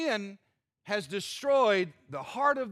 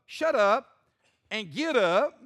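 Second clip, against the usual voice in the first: firm command; 5 dB louder, slower than usual. Acted. God commanding Joshua.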